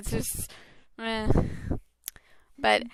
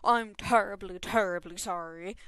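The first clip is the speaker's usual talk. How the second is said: put-on posh British accent; 3 semitones lower, 4 dB quieter than usual. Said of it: "that's the other version of the accent".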